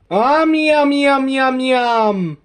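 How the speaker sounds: greedy yum. Pretend. Hungry toy tells Michael it's starving, eager yum. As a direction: drool over the food, pitch up.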